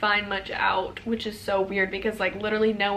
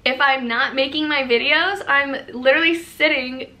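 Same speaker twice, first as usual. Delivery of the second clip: mock retort to a hater; 3 semitones higher, 5 dB louder than usual. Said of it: "And I'm like".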